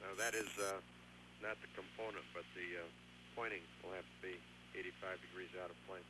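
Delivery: faint crackly radio voice cutting out; breaking up space radio. Real, not acted. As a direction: voice dropping out over a distant radio link. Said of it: "Must have dropped out".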